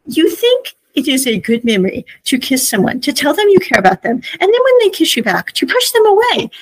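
retelling a friend's outraged scolding; indignant outburst. Retold or imitated. Mock confronting August, rising indignation.

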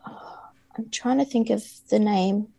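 whispered, thinking aloud; whispered to herself. Real, not acted. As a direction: whisper while searching memory. Straining to recall answer.

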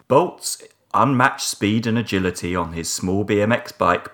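understated sci-fi robot voice. Acted. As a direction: read it like a malevolent computer. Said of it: "I sort of want to do it in a robot voice".

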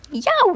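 high, loud yelp. A narrator's reading. Mercy reacting to the cat's swipe, yelping. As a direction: yelp as if your tail was swiped. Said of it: "said Mercy".

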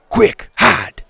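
high, loud urgent hiss. A narrator's reading. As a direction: rush them into hiding. Urgent warning.

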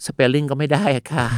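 slow, lightly put-on polite complaint; quoted helpless listener. Host voices a listener who cannot spell, mock helpless. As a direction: lightly imitate a clueless caller. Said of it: "แต่บางคนบอก ว่า พี่เต้".

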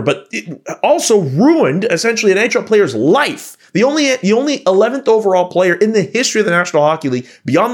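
indignant rant, pitch riding high; worked up. Real, not acted. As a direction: argue it heatedly, in real disbelief. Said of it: "I'm getting worked up about it".

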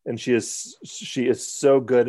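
slow, mock-gushing praise; sarcastic. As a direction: drag out the compliment sarcastically. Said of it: "That's, uh, sarcasm".

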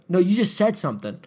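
retold confrontational comeback; imitating accusatory insistence. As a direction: act out a man pressing his accusation. Acted man pressing the quarrel.

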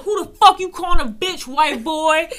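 high, very loud indignant yell; retold angry confrontation. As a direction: reenact yelling back at an insult. Retold quarrel, in his ear.

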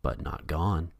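low, quiet ominous warning. Retold or imitated. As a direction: let it hang like a threat. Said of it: "ominously adding".

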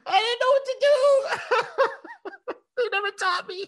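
high, laughing fake whimper; mock crying. Pretend student coming out of the booth, mock crying. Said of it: "I probably come out crying like".

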